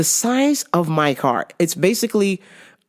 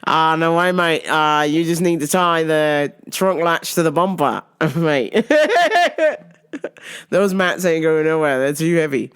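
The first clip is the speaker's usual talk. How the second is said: lower, badly faked Australian accent; terrible Aussie accent; 3 semitones lower than usual. Ellis reassuring about the mats, bad Aussie accent. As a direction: do your mate in hammed-up Aussie. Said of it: "that terrible Aussie accent".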